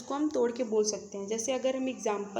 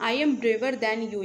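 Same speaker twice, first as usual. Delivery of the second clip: slow example sentence; 4 dB louder, much slower than usual. Shown as a demonstration. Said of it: "ब्रेवर means क्या हो जाता है आपका".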